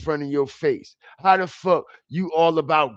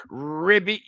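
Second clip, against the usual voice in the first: mock frog croak. Shown as a demonstration. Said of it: "Open your throat like them frogs do".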